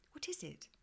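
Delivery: high, soft, anxious question; a small girl hiding her nerves; trying not to sound nervous. A narrator's reading. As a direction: hold back fear as you ask it. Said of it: "trying very hard not to sound nervous".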